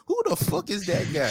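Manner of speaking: high-pitched imitation of a fighter's dismissive question; Conor McGregor. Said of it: "what that nigga McGregor said?".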